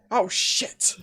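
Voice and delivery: lightly voiced startled otter; squeaky otter voice. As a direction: blurt it as a small panicked otter. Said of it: "and goes".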